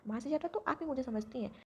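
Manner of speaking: high, smiling endearment to grandma; smiling, affectionate. Acted. Granddaughter sweetly thanking her grandma, smiling. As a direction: coo it sweetly with a smile. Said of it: "विश हल्का सा मुस्कुराती है".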